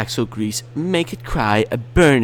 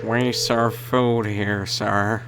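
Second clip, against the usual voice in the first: mock employee voice; 4 semitones lower, slower than usual. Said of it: "They should have just said".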